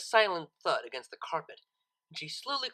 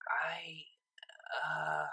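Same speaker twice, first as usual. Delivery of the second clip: breathless hesitation; 5 dB quieter than usual. Acted. Vinyl caught off guard.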